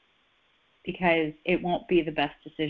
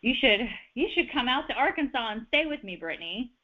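lightly voiced, higher-pitched friendly invitation; inviting friend; 6 semitones higher than usual. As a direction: pretend you're coaxing a friend to visit. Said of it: "say if somebody invites you".

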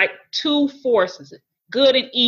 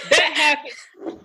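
slow, choked-up words on the edge of tears; voice breaking; 6 semitones higher, slower than usual. Real, not acted. Telling the interviewer about her marriage, close to tears. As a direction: let the tears catch the words. Emotion breaks in during testimony.

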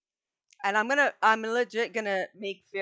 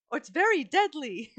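higher, chirpy fairy voice; 7 semitones higher than usual. Acted. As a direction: squeak the warning like a tiny fairy. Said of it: "As Fairy says".

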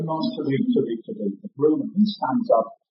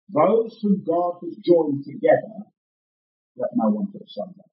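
slow and solemn. Shown as a demonstration. Minister repeating the wedding words to the congregation, slow and solemn. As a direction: pronounce it slowly, with a grave pause midway. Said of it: "I always do this slowly and solemnly".

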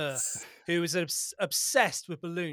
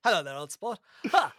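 jolly posh balloonist, lightly put on; hearty old aviator showing off his balloon; old-timey pilot voice; 3 semitones higher, 3 dB louder than usual. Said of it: "really stuck into that pilot voice".

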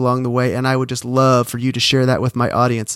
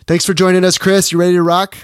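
excited; 4 semitones higher, 3 dB louder than usual. Real, not acted. Hyped welcome to the guest.

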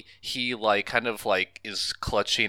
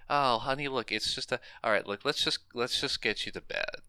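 softer, mildly placating parent voice; soothing mother; 4 semitones higher, 6 dB quieter than usual. Retold or imitated. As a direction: gently brush off a child's fright, imitating mom. Mother soothing a spooked daughter.

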